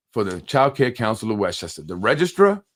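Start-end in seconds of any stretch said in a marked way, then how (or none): 1.8-2.6 incredulous question. Real, not acted.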